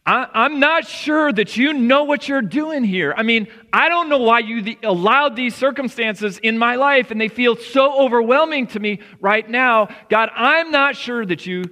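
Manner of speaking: anxious worrier's prayer. Retold or imitated. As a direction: voice the worrier pleading in doubt. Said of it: "you're saying".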